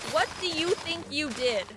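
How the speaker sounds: mock the parent's line; lightly sarcastic echo of "What do you think you did?"; mocking adult question. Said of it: "Why do adults say that to children".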